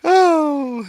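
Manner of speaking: high surprised exclamation. Real, not acted. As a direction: gasp of surprise. Reacting to clip in surprise.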